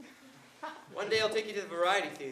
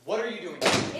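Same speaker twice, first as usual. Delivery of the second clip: louder, sharp demand; startled confrontation; 6 dB louder than usual. Acted. Man confronting unwelcome woman who followed him, sharp demand.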